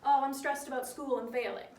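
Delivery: relaxed, run together like chatting to a friend; easygoing spoken version, no stops; casual chat. Shown as a demonstration. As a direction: toss it off the way you'd talk to friends. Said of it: "This is how you would talk to your friends".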